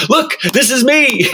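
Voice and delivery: high, thrilled look-at-me; excited showing off. Retold or imitated. Showing the magnet to the cashier, high and thrilled. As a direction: beam it out like a cover star. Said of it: "it was this".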